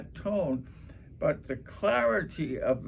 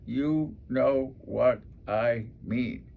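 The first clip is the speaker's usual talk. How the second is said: slow, drawn-out filler; slow filler phrase; slower than usual. Shown as a demonstration. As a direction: let the filler phrase drag out slowly. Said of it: "Those are extra words".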